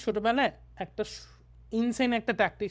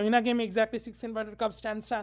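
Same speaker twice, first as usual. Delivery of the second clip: reading straight through; 3 dB quieter, much slower than usual. Shown as a demonstration. Teacher mimicking a student who reads without understanding, straight through. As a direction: run the words together without pauses. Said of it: "টানা পড়ে যাও".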